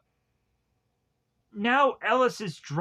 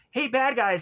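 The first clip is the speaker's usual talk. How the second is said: mock calling out; 6 semitones higher than usual. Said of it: "stick his head out the window and be like".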